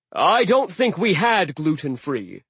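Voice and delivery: slow, doubtful giant; baffled host; puzzled sea giant. Acted. Aegir puzzled.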